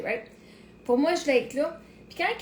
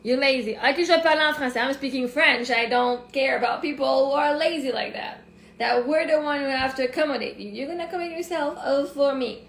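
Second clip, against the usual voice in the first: louder, firm scolding; 4 dB louder than usual. Real, not acted. Scolding a viewer who won't learn French, louder and firm. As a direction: tell the lazy viewer off.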